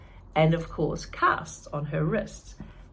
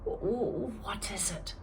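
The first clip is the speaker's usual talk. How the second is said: soft stammering whisper; 3 semitones higher, 5 dB quieter than usual. Acted. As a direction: sneak the question to a friend. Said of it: "she whispered".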